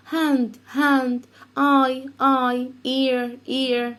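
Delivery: put-on hand, eye, ear said up and crisp for kids; modelling words for repeating. Shown as a demonstration. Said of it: "listen and repeat".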